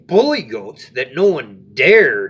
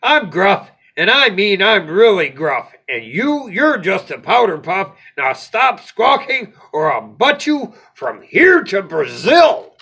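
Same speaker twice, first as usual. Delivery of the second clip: bullying threat; 3 semitones higher, 4 dB louder than usual. Acted. Goat threatens ogre.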